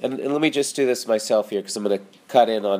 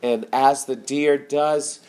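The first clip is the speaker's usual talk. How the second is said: prayer. Acted. Pastor closing the sermon in prayer, earnest spoken prayer. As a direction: pray it over the listeners.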